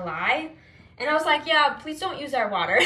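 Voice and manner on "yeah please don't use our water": slightly louder, polite retold request; friendly but awkward refusal; nice polite request. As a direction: ask nicely while standing your ground. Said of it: "in a nice way".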